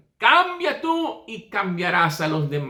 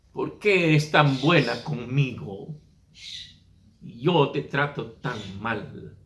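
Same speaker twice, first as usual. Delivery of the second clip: tearful; 6 semitones lower, slower than usual. Acted. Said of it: "comenzó a llorar".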